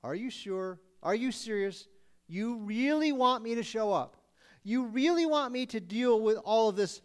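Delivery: incredulous, mocking disbelief; dry sarcastic God. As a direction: ask it like you can't believe they mean it. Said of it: "God asks them".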